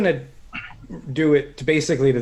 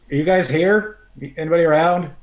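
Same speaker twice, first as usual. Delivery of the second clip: loud, higher searching call; shouting out; 4 semitones higher, 8 dB louder, faster than usual. Acted. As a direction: call out to find the others. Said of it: "shout out, like".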